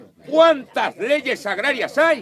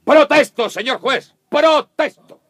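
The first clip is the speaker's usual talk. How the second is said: indignant objection; 3 semitones higher, 5 dB louder than usual. Acted. Objecting angrily in court.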